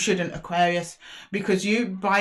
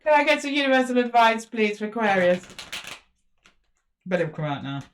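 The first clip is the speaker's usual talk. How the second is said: insistent demand; 4 semitones higher than usual. Real, not acted. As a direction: demand it from the cards. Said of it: "I'm asking nicely, Spirit".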